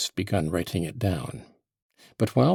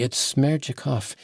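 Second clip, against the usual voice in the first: mock shout; 6 semitones higher than usual. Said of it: "shout with all my might".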